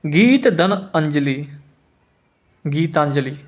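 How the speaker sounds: गीत धन अंजलि spoken slowly, each part separated; slow breakdown. Shown as a demonstration. Teacher breaking the word into parts for students, slowly. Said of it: "समझ रहे मेरी बात?".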